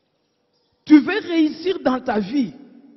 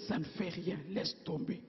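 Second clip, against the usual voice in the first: much softer, offhand brush-off; dismissive reply; 7 semitones lower, 17 dB quieter than usual. Retold or imitated. Preacher imitating a believer brushing off a rebuke, soft and dismissive. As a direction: wave off the reminder quietly.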